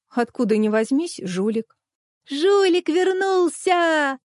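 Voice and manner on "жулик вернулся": high, slow, loud cry of joy; boy overjoyed his friend is back, high and stretched out; delighted cry. A narrator's reading. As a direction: welcome your lost friend back. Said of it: "обрадовался Вася".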